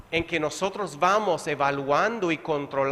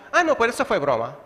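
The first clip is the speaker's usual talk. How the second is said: "eso fue broma" tossed off fast and breezy; a quick flippant excuse to cover an insult; dismissive cover-up; 2 semitones higher, faster than usual. Retold or imitated. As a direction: laugh off an insult as a joke. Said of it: "cubrimos lo que hemos dicho ofensivo".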